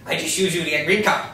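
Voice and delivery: put-on thick Asian accent. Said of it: "speaks with a loud, thick Asian accent".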